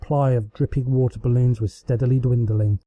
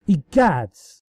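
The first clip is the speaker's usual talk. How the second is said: faux horror; 4 semitones higher, 4 dB louder than usual. A narrator's reading. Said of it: "balked in faux horror".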